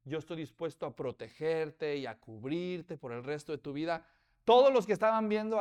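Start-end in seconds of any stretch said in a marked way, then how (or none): 0.0-4.0 solemn promise. Retold or imitated. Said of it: "decía".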